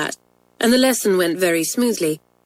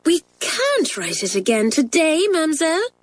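higher, polite schoolgirl plea; Isabel politely; 10 semitones higher than usual. Acted. Isabel politely answering the angry French mistress. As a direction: explain respectfully to the teacher. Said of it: "said Isabel politely".

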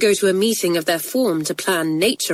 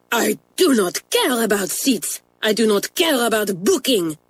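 Mamselle shouting; 3 semitones higher than usual. Acted. French mistress losing her temper at Isabel. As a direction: lean on care in temper. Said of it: "shouted Mamselle".

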